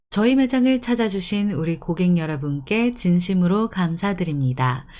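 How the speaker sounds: formal Korean store announcement; smooth, measured announcer delivery; polite announcement. Shown as a demonstration. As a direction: welcome the customers over the tannoy. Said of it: "has to be all polite because it's announcement".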